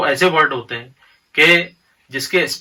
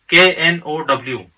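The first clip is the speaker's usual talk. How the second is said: spelled out slowly. Shown as a demonstration. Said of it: "और दूसरे example हम देखते हैं नो".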